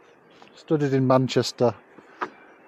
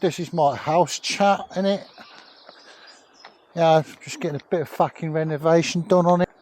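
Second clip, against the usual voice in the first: put-on Cockney accent; 4 semitones higher than usual. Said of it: "I'm not very good at a Cockney accent".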